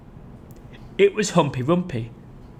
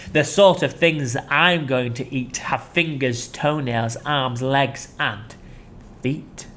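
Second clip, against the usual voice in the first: menacing crocodile; slower than usual. Acted. Crocodile listing what he will eat. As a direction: draw the list out darkly.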